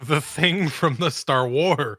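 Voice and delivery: slow teasing echo of a friend; mock repeat. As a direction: drag it out, teasing. Friend repeats phrase mockingly.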